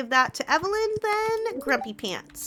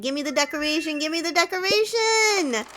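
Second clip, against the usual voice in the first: eager demand, building as it repeats; impatient for the prize, rising the second time; excited; 3 semitones higher than usual. Real, not acted. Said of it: "I'm so excited".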